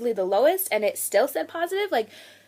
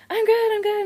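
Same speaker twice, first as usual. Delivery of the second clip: high-pitched, breezy imitation of an acquaintance; chipper reply; 10 semitones higher than usual. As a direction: imitate a polite, upbeat answer. Acted cheerful reply from Jody.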